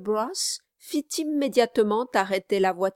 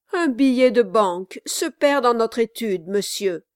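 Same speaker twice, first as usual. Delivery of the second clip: a touch louder, plaintive; lightly voiced lawyer; 3 semitones higher, 6 dB louder than usual. Brass explains the theft to Quilp, mild complaint. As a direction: explain with a shake of the head.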